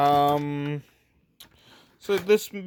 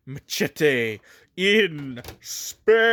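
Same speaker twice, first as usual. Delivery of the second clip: trailer voice; 3 dB louder, much slower than usual. Pretend. Quoting movie tagline.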